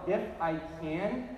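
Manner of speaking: slow, mildly incredulous echo; understated disbelief in a retold reply; questioning echo. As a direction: question it slowly, stretching the opening words. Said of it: "As if to say".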